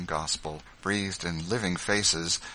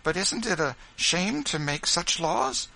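put-on young boy; 11 semitones higher than usual. Boy protests to father.

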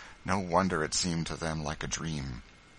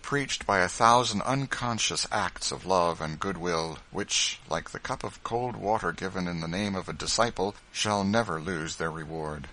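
ordinary delivery

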